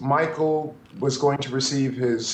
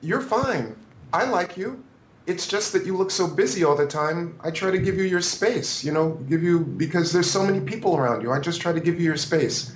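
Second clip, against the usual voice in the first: reassuring; 3 semitones higher than usual. Retold or imitated. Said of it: "I had to calm myself. I said".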